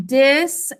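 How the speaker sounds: "disappear" as DIS, AP, PEER with gaps; sounded out. Shown as a demonstration. Teacher dictates as class writes, "disappear" sounded out by syllable. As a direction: break "disappear" into three full syllables. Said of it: "Sound it out".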